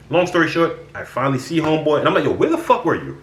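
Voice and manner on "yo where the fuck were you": sharp, aggressive confrontation; angry demand. Retold or imitated. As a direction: snap the question at him. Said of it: "Just like that. No".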